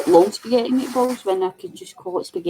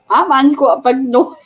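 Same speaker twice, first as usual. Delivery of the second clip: put-on laughing child's remark; 4 semitones higher, 6 dB louder than usual. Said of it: "and I'm like".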